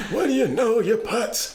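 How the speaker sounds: high nasal-free New York Jewish voice, laughing through it; hammy New York Jewish put-on; New York Jewish accent. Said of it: "learn how to do that Jewish accent better".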